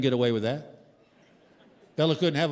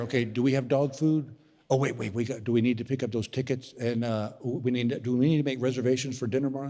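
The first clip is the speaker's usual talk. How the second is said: wife thinking aloud; 4 semitones lower than usual. Retold or imitated. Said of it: "Then I hear".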